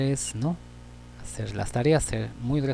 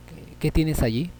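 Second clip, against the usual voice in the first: higher-pitched question on "qué tienes allí"; 4 semitones higher than usual. Shown as a demonstration. Teacher showing students an interrogative accent, questioning "qué tienes allí". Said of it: "estás en interrogación".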